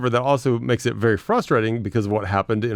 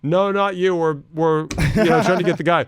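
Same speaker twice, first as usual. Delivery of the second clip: put-on lightly higher kid voice; imitating a kid; 6 semitones higher than usual. Kid in car waves me off, a hint of a kid. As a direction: voice the boy dismissively. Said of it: "He's like".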